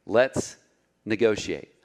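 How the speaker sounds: tempting Satan. Acted. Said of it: "That's what he's saying to you today".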